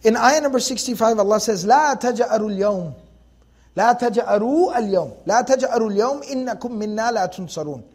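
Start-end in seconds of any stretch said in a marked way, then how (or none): 1.6-7.8 fast, rhythmic Arabic recitation; تلاوة سريعة; Quran recitation. Acted. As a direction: recite the verse in a quick chant.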